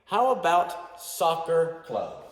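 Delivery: teacher acting out the model dialogue loudly; modelled dialogue. Shown as a demonstration.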